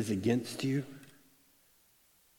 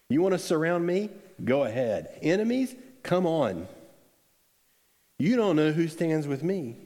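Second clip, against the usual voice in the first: mock defiance; 5 semitones higher than usual. Pastor voicing Elisha taunting the enemy army, defiant. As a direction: dare them to surround you.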